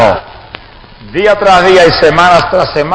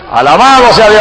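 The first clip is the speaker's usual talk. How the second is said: exultant praise; 5 semitones higher, 4 dB louder than usual. Real, not acted. Preacher rejoicing over a God-given message, exultant praise. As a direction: let the praise ring out to the church.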